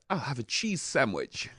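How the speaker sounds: slow, posh English voice; posh English accent. Shown as a demonstration. Guest demonstrating how posh English makes anything sound good, posh English accent. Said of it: "in a posh English voice".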